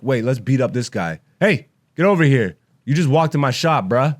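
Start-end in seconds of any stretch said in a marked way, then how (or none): 1.4-4.2 mock British voice. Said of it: "My Ricky".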